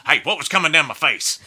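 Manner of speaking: high, loud mock interrogation; retold loud demand. Musician imitating his bandleader quizzing him on the tears, loud demand. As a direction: imitate him calling out for an answer.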